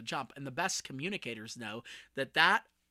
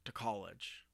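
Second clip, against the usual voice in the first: retold mom's words; 6 semitones lower, 9 dB quieter than usual. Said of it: "looked at me and said".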